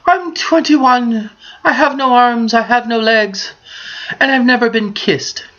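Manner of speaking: put-on high weepy girl voice; crying girl voice.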